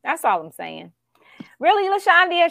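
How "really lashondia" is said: mock indignant.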